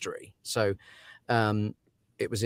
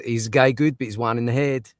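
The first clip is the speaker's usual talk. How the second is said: put-on stepdad's saying in a Scottish accent; lightly put-on Scottish accent; 3 dB louder than usual. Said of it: "my stepdad is Scottish, his famous sentence".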